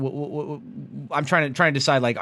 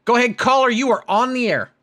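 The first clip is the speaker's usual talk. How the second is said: higher, louder mock radio DJ intro; radio host voice; 8 semitones higher, 6 dB louder than usual. Host welcoming a caller on air, mock radio announcer voice. Host taking a call on stream.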